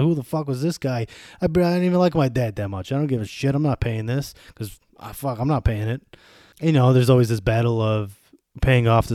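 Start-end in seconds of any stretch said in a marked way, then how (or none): 0.0-6.0 mock resentful kid. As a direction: toss it off like an annoyed heir refusing the bill. Kids voiced refusing dad's debt.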